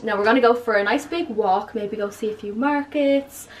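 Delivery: tour guide voice. Pretend. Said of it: "You sound like you're a tour guide".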